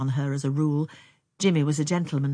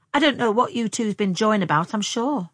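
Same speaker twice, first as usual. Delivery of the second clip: high, raised-voice grumble; huffy; 5 semitones higher, 5 dB louder than usual. A narrator's reading. Younger sister walking home with her sister, huffy. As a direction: complain huffily, pitched up.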